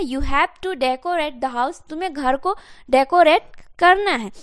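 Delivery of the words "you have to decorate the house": each word spaced out for learners; teacher dictating an English sentence to the class; slow model sentence. Shown as a demonstration. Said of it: "क्या हो जाएगा?".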